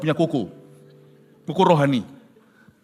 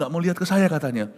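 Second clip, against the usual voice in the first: normal talking voice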